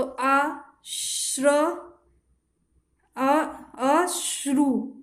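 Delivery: drawn-out syllable by syllable; slowly sounding out a word for students; slow spelling out. Shown as a demonstration. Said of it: "इसे आपको".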